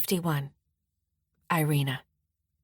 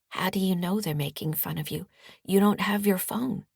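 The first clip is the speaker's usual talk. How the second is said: soft voice; 2 semitones higher than usual. Acted. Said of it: "I say in a soft voice".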